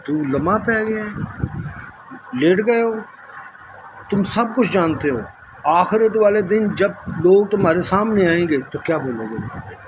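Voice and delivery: imitating a young man scolding him sharply, fading at the end; angry scolding. Young man of his generation scolding the speaker, retold angry rebuke. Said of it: "اس نے بڑے غصے سے مجھے کہا".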